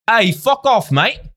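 hammed-up British accent telling him off; imitating the UK company rejecting Chris in a British accent; mock British accent. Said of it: "that's probably not even the right accent".

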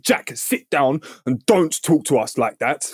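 slow, measured imitation of a scolding; firm telling-off. Receptionist telling Jack to sit down, imitated slow and firm. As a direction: space out the words like a reprimand.

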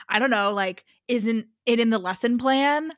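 mock-innocent sarcastic question; imitating a slightly pissed, sarcastic man. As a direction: ask it with pointed sarcasm. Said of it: "like, sarcastically".

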